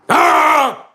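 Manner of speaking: loud high bellow; captain roars at the shark to lure it away, full-lunged bellow; roaring yell. Acted. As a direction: roar to draw the shark. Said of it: "roared at the top of his lungs".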